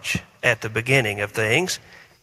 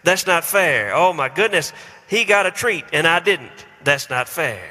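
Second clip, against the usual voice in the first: put-on whiny child. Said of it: "have heard these words".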